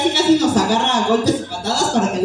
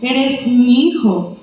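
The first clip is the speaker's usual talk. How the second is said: lento y tierno, énfasis en mi; slower than usual. Shown as a demonstration. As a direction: dilo con ternura, despacio. (padre diciendo a su hijo con ternura, lento)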